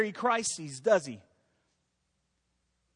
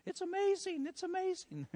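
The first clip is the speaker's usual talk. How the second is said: higher, hammed-up cheer; mock excited; 9 semitones higher than usual. Paid congregant running around, mock thrilled. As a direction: play a planted enthusiast. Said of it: "run around and say".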